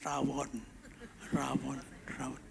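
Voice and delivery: low, very soft dreamy repetition; hushed echo, fading away; lingering craving. Retold or imitated. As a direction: murmur it as if picturing the food. Imagining the craved dish.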